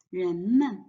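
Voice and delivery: 人们 with a full 人 and light 们; neutral-tone 们 in 人们; stress on first syllable. Shown as a demonstration. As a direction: lean on 人 in 人们. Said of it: "put the stress on the first word".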